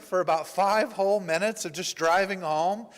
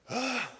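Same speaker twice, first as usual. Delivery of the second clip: retold exasperated sigh, higher pitched; frustrated groan; 7 semitones higher than usual. Helper hearing another plea for money, frustrated groan. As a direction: let out a frustrated "ugh". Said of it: "I can feel the frustration".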